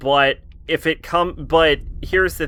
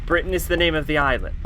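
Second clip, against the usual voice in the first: put-on affected English accent, pitched higher; hammed-up, higher English accent; put-on British accent; 4 semitones higher than usual. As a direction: play someone who picked up an English accent one summer. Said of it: "spent a summer in England and she's like".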